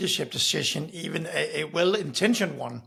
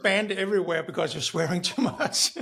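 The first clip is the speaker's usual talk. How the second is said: laughing tease; 2 semitones higher than usual. Real, not acted. Teasing guest over swearing, laughing.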